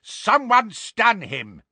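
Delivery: high, drawn-out yell; shouted order. A narrator's reading. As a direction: yell for help restraining him. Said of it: "the Death Eater shouted".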